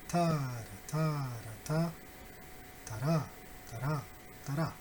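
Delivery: nonsense-syllable rhythm demo; rhythm pattern. Shown as a demonstration. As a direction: chant the beat on "ta" syllables. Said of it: "stress and rhythm. The first one is".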